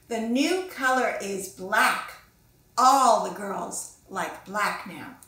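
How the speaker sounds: slow, loud, drawn-out superior tone; snooty know-it-all. Acted. Brittany lecturing Pinkalicious that pink is out, slow and snooty. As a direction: stretch each word like you're above it all. Brittany announces black trend.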